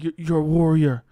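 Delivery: loud hammed-up hype speech to a heartbroken fighter; over-the-top locker room encouragement; mock pep talk. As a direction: pump him up like a corner coach between rounds, half joking. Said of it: "I'd be like".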